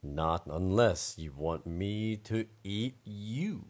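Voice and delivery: slow, lightly voiced hungry bear.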